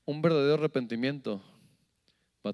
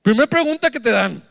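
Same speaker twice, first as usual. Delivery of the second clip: mocking aside; 11 semitones higher, 12 dB louder than usual. Real, not acted. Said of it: "mocking aside".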